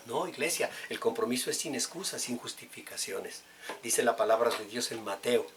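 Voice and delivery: ordinary talk, nothing marked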